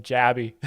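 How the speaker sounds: Jabba shortened to Jabby, JAB-ee; Australian nickname. Shown as a demonstration. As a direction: say Jabby with a bright "ee" ending. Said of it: "In Australia".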